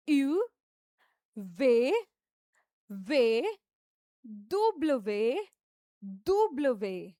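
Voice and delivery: दुब्लवे drawn out slowly as doo-bluh-vay; teacher modeling French letters; French letter names. Shown as a demonstration. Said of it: "ये थोड़ा सा tough है".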